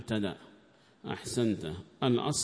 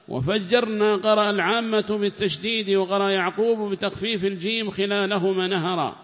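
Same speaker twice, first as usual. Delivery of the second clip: loud, higher reading of the commentary, at times slow; formal text reading; 6 semitones higher, 8 dB louder than usual. Acted. Reader reads the tafsir aloud in class, loud and formal. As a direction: read the book out to the class in a raised voice.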